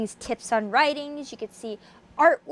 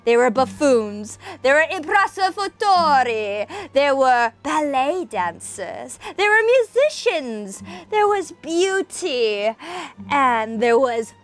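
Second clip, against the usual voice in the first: dramatic reading. A narrator's reading. Reading Poe aloud to viewers in isolation, dramatic narration. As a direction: read it like a gothic tale by candlelight. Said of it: "we shall commence with a dramatic reading".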